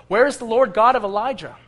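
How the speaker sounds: loud, high pleading cry; crying out to God. Retold or imitated. Elisha at the river crying out to God, loud plea. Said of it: "And he cries out".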